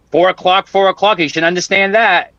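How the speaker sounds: high-pitched, mildly frustrated repeat; exasperated insistence. Retold or imitated. Man telling AI the time, exasperated. Retold exasperation at controller confusing times.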